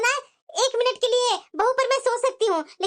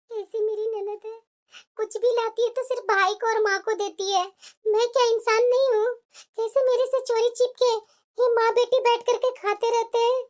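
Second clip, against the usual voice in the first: subdued, wounded soliloquy; hurt grumbling. Acted. Daughter-in-law left out of the treats, hurt grumbling. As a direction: grumble to yourself, feeling left out.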